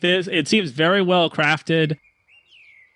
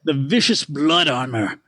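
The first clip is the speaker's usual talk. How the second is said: excited merchant. Acted. Stanley unveiling armor to the party. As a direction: show off the armor. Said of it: "He goes".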